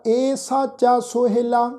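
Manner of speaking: slow, measured Gurbani recitation with long line endings; scripture recitation. Acted. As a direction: recite the shabad slowly, sustaining final vowels on a level tone. Recites both shabads devotionally. (ਠਰ੍ਹੰਮੇ ਵਾਲਾ, ਲਮਕਵਾਂ ਗੁਰਬਾਣੀ ਪਾਠ)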